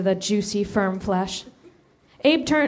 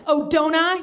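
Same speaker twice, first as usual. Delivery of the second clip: yelling; 6 semitones higher than usual. Acted. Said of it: "yelled the older boy".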